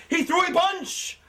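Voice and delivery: very high, drawn-out excited call; over-the-top commentator scream. Retold or imitated. Joking a dull punch sounds phenomenal, wildly impassioned. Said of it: "so much passion in it".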